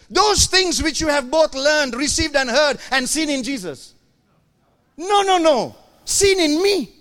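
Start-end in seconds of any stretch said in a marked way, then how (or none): 5.0-6.9 loud, high correction; emphatic high correction. Real, not acted. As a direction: insist loudly. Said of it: "emphatic correction".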